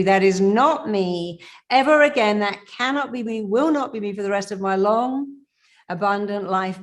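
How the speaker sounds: loud, forceful declaration; powerful affirmation. Shown as a demonstration. Coach leading viewers in a forceful loud affirmation. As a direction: affirm it with full conviction. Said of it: "say it with power in your voice".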